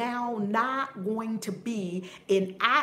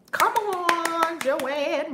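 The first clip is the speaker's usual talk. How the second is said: mock shout; 9 semitones higher, 7 dB louder, much slower than usual. Mocking people chasing money.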